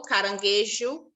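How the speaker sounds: caranguejo said slowly, the jo clearly zh; slow teaching word; slow clear example. Shown as a demonstration. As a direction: spell out caranguejo syllable by syllable. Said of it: "caranguejo forma uma sílaba".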